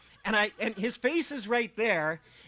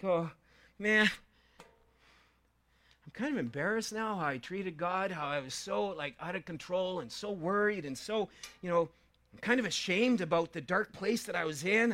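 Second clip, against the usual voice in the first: sheepish psalmist; 4 dB quieter than usual. Retold or imitated. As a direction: mumble it like a man ashamed of himself. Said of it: "kinda sheepish".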